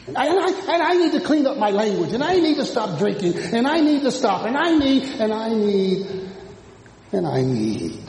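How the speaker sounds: preacher mimics a self-improver listing needs, building then fading; imitated pleading list.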